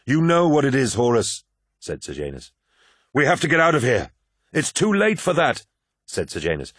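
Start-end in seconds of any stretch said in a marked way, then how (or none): 0.0-1.4 high, raised voice over noise; raised-voice reply. A narrator's reading. Shouting over a howling vortex. 3.1-5.7 high, urgent calling over noise; urgent raised voices. A narrator's reading. Urgent exchange over roaring wind.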